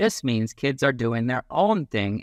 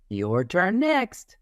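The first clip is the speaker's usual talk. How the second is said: put-on kid's voice; 6 semitones higher, slower than usual. Kid letting others take turns.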